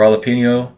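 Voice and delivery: jalapeno with a "nyo" ending; American "jalapeno" with ñ sound; half-anglicized jalapeno. Shown as a demonstration. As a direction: say "jalapeno" American-style but ending "peenyo". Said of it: "every time I say".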